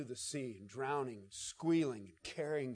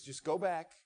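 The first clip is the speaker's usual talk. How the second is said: soft, fading tender instruction; Jesus quietly sending the man home; gentle Jesus; 4 dB quieter than usual. Retold or imitated. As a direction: send him home kindly. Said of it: "He says".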